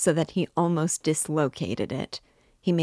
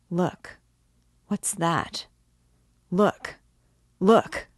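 rising, louder urgent call; excited look; 3 semitones higher, 3 dB louder, much slower than usual. A narrator's reading. Raskolnikov urging his friend to look, excited. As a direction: make him see the light now.

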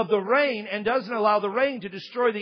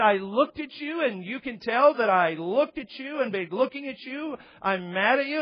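retold disbelief; 2 semitones higher than usual. Acted disbelieving recap of accusation.

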